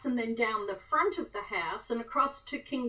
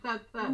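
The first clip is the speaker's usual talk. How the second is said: helicopter noise; 4 dB quieter than usual. Retold or imitated. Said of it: "if you have a helicopter go over".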